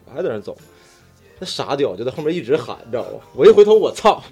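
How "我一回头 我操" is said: surprised exclamation. Retold or imitated. Recognizing old classmates.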